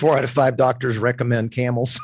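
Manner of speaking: put-on bright old-time ad announcer voice; chipper 1950s ad. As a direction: sell it like a vintage cigarette commercial. Quoting old cigarette ad slogan.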